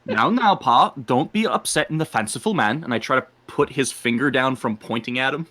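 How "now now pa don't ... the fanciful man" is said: lightly voiced Scottish lilt; a hint of a Scottish brogue; broad Scottish accent. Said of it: "very thick Scottish accent".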